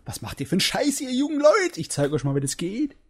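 put-on cranky old man, rising in a squeak on jungen Leute; grumpy old man. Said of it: "Der alte Mann, der dann das sieht".

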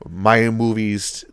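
lightly voiced grand villain; a hint of theatrical menace; maniacally classy. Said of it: "maniacally classy".

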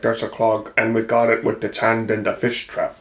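nonsense metaphor in a mock Finnish accent. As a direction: imitate a cryptic Finnish janitor. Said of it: "very, very thick Finnish accent".

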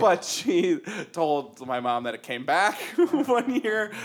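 laughing through the words; giggling as she tells the prank story. Real, not acted. Laughing while telling about her sister's prank.

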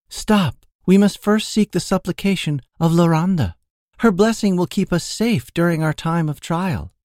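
high-pitched, solemn priestess voice; interrupting enchantress. A narrator's reading. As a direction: break in high and pious. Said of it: "the enchantress interrupted".

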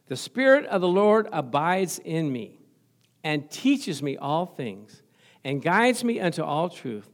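slow, deliberate declaration; confession recital. Shown as a demonstration. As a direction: proclaim it as a faith confession. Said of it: "this is how it goes".

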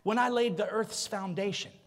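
lightly voiced thundering God. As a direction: question Job from on high. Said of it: "He says".

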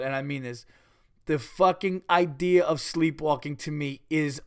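loud, laughing rant; cracking up while talking. Real, not acted. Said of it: "I had tears in my eyes".

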